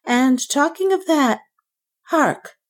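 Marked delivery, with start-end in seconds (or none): 2.1-2.6 high, startled hark; sudden alarm. A narrator's reading. Banker hears a noise and breaks off, high and terrified. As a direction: break off in terror. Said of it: "he broke out suddenly".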